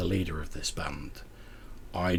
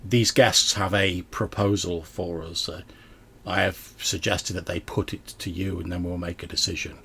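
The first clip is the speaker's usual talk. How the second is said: raised voice addressing the group; louder voice. Acted. Band leader raising her voice to her gathered people. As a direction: speak up so the whole band hears. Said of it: "in a sort of louder voice".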